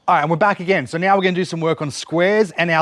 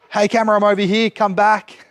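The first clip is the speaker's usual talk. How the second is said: higher, quick call to the camera; 4 semitones higher than usual. Real, not acted. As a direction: call the wandering camera back. Calling the camera back to her.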